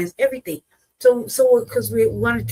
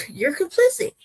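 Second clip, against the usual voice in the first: higher, with a laugh, complicit rising; laughing accusation; 10 semitones higher than usual. Real, not acted. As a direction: laugh and repeat it, incredulous.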